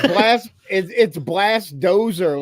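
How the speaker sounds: slowed down, spelling it out; slow and clear. Real, not acted. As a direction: repeat it slowly for a laggy listener. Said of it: "Blast what?".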